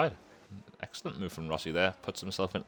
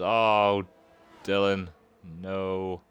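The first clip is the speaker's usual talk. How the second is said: dismayed; 5 dB louder, much slower than usual. Real, not acted. Driver loses places.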